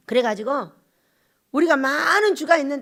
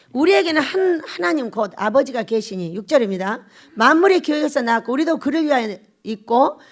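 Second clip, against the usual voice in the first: scripture reading; 6 dB louder than usual. Acted. Reads the verse aloud.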